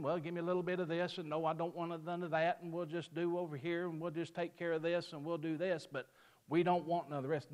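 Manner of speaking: mildly mocking, hurried run-through; offhand picking and choosing. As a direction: rattle it off casually like a choosy cafeteria customer. Mock order of a pick-and-choose believer.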